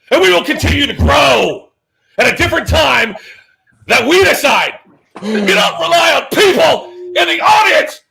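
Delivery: shouted wrestling promo, hammed-up; Ric Flair promo. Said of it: "do the Ric Flair".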